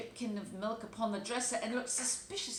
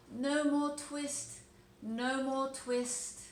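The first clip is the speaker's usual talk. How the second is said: dream mumbling; 6 semitones higher, 4 dB louder, much slower than usual. Acted. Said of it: "in his dreams he mumbled".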